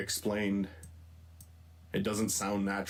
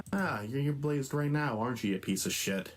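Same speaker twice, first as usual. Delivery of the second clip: acted line; 3 semitones higher than usual. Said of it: "The second one's the best one".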